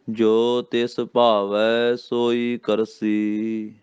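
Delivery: very slow chant, stretching ਭਾਵੈ; very slow recitation. Shown as a demonstration. Teacher showing where the verse pauses, very slowly. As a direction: linger on every syllable. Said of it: "ਕਰਸੀ ਤੇ ਵਿਸਰਾਮ".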